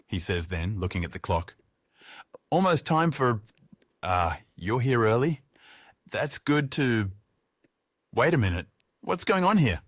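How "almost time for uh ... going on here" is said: confused. Acted. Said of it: "he asks, confused".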